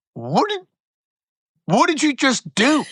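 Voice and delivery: high, halting, stunned question; appalled disbelief. Retold or imitated. Shocked brother after the phone is hung up, appalled. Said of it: "and I'm going".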